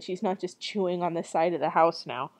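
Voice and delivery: plain reading voice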